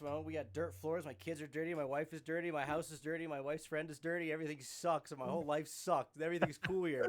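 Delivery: mock Blackthorn rant. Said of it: "it's like".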